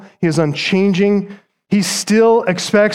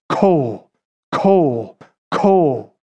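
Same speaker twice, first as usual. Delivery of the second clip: Kol, kol, kol each struck lower like a slow drumbeat; war drum beat; 3 semitones lower, much slower than usual. Shown as a demonstration. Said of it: "it resembles the beat of a war drum".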